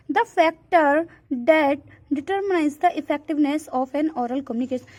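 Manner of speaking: reads the English definition out slowly, word by word; slow reading aloud. Acted. Teacher reading a textbook definition to students, slow and deliberate. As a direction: dictate it slowly to the class.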